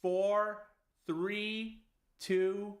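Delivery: stern parent countdown. Acted. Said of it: "like he's a toddler".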